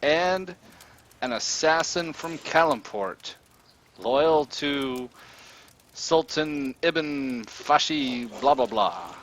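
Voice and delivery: gloating ransom-taker, words drawn out; menacing captor. Acted. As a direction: announce the captive slowly and grandly. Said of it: "glares down into the pit, and he says".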